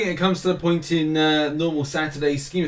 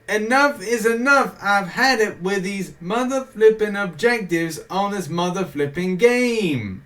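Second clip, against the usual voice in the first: a fed-up movie-star rant, much higher and louder; Samuel Jackson rant; 6 semitones higher, 3 dB louder than usual. Pretend. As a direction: channel an exasperated action hero ranting. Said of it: "It literally does turn into Samuel Jackson".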